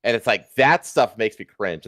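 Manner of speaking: normal talking voice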